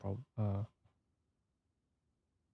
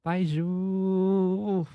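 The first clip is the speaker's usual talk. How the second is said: higher, pained call of the name; emotional cry of a name; 9 semitones higher, 3 dB louder than usual. Real, not acted. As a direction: cry out for him, moved. Calling out character's name, moved.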